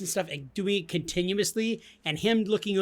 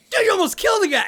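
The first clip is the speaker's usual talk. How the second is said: higher, louder mocking yell; teasing shout; 5 dB louder, faster than usual. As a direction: rib a friend mercilessly, loudly. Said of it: "I teased you mercilessly".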